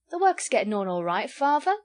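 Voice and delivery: protesting daughter. Acted. Sally answering her father back, pert.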